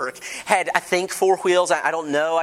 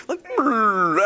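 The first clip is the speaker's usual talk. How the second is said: wimpy engine noise; 5 semitones higher than usual. Retold or imitated. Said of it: "pathetic sort of wimping".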